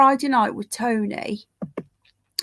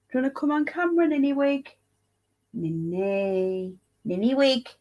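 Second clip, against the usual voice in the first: pet talk; 3 semitones higher than usual. Real, not acted. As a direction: coax the dog over. Calling the pet to camera.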